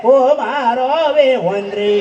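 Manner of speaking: slow, drawn-out fake wail; mock sobbing lament. Weeping mourner who pockets the earring, mock wail. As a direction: imitate a mourner keening theatrically. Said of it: "હારો રડતો રડતો".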